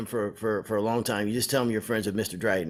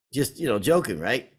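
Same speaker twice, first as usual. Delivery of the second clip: normal talking voice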